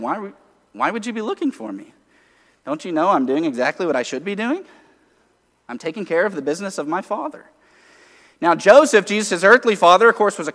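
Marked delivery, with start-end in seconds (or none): 0.0-7.5 calm. Retold or imitated. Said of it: "Jesus just calmly looking at them".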